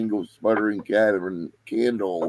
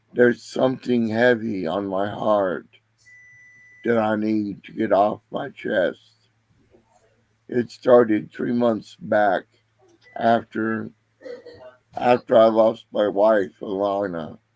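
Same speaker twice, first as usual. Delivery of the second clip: hoarse, labored, slow, raspy, strained voice. Voicing a sick man confessing to the party: raspy strained voice. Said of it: "his voice raspy and strained".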